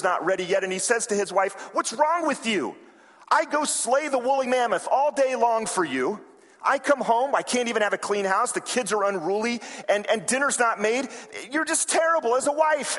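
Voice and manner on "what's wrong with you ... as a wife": mock angry husband. Husband yells at wife.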